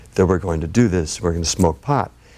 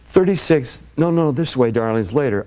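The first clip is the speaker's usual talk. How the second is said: stoned and giddy; 4 semitones higher than usual. Retold or imitated. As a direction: play the giddy, high-as-a-kite host. Retold stoned self.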